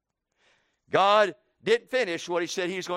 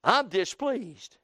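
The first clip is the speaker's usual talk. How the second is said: sulky complaint; 4 semitones lower than usual. Acted. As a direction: whine it out and let it sink low. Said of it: "looked at God and said".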